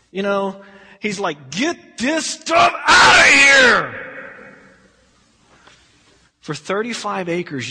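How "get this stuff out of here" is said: loud, high, drawn-out shout; bellowed angry command; furious yell. Acted. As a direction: yell it slowly at full force, building to the end. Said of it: "Jesus is yelling".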